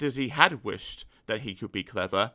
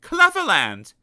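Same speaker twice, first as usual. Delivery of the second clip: announcing the title; 12 semitones higher, 10 dB louder, slower than usual. A narrator's reading.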